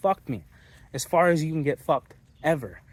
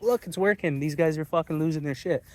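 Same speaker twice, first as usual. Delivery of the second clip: higher, gleeful mock taunting; gloating tormentors; 3 semitones higher than usual. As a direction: gloat like the ones watching you crack. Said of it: "They're like".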